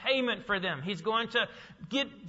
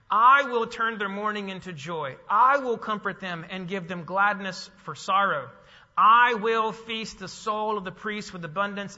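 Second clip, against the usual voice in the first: loud, declaiming Bible reading; scripture reading; 4 dB louder than usual. Acted. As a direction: proclaim the text to the congregation. Reads scripture aloud.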